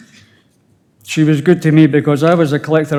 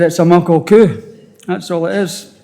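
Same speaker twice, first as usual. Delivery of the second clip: Scottish phrase, louder; 2 semitones higher than usual. Retold or imitated. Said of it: "So I said".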